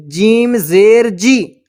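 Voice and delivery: जीम ज़ेर जी spelled slowly, ending on a long जी; slow spelling drill. Shown as a demonstration. Teacher spelling for students, slow drill ending on जी. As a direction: chant each part like a reading drill. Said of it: "ये ज़ेर लगा कर देखते हैं".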